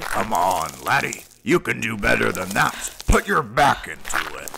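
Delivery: loud drill-sergeant push; coaching shout. Acted. Trainer pushing the trainee up the hill, loud coaching. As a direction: bark them up the hill.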